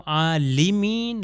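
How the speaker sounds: عالمین said a-li-min with kasra; wrong vowel. Shown as a demonstration. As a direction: slowly say عالمین with i under lam. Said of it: "لام کے نیچے زیر لگا دوں".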